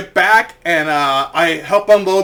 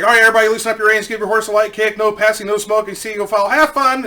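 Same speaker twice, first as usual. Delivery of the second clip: fast, higher-pitched rote patter; rattled-off instructions; 4 semitones higher, 3 dB louder, faster than usual. Retold or imitated. Boss sends riders off before trotting away, rapid patter. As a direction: reel it off, lifting on the last words.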